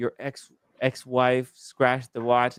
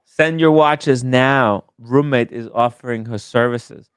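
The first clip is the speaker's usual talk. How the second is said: mock ad voice; 6 dB louder than usual. Mock promo for roommate's service.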